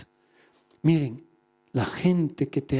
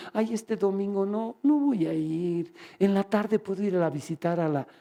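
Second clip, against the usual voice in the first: lazy excuse-making. Acted. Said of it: "cuando escuchen esa voz".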